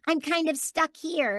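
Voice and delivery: high, put-on voice of the hygienist, with a giggle; flustered hygienist impression. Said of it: "and she was like".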